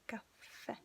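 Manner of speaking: slow "caffè", weight on the final è; stress on last vowel. Shown as a demonstration. Teacher demonstrating the accented last letter, slow stressed è in "caffè". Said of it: "you have to really stress".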